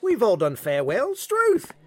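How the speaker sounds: a hammed-up Aussie bluffer, Australian accent; bad Australian accent. Player bluffing at the poker table, bad fake Australian accent. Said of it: "I know my accent sucks".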